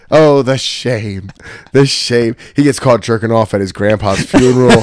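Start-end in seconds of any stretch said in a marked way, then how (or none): 0.1-2.4 mock shame. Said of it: "comic mock despair".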